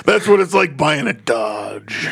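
slow put-on redneck drawl; slow and lazy, like a tired redneck. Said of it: "Tired Redneck".

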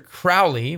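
"Crowley" said as CRAU-lee; correct pronunciation. Shown as a demonstration. Minister gives the proper surname, "Crowley" rhyming with "cow". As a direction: rhyme the start of "Crowley" with "cow". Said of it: "how you're supposed to say it".

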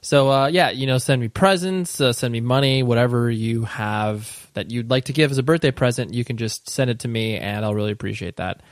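dry, mock-pleading request; deadpan joke begging for gifts; sarcastic. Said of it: "me being sarcastic".

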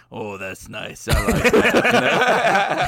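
Chase's dog voice. Retold or imitated. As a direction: mimic a friend voicing a contented petted dog. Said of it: "Chase will be like".

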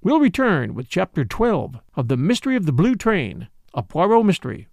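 radio announcer, measured and formal; announcer read. Acted. Radio host sending listeners to the sponsors, announcer style. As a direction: announce the break like old-time radio.

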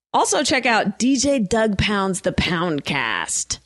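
smooth radio host read; radio announcer. Acted. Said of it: "I sound like a real radio person".

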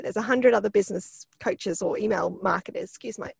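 hoarse, croaky throat; talking through a croaky voice. Real, not acted. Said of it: "croaky voice".

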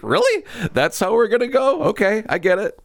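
high, incredulous sarcastic quote; mock disbelief. Mocking the movie's ending with high disbelief. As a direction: sarcastically pretend to be shocked at the ending. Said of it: "it was like".

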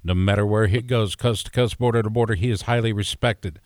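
big radio intro read; radio announcer voice. Acted. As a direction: announce him like a radio host. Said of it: "you sound like a radio guy right now".

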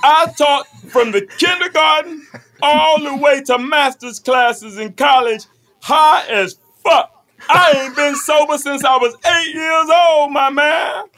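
boastful shout. Acted. Cocaine guy bragging loudly.

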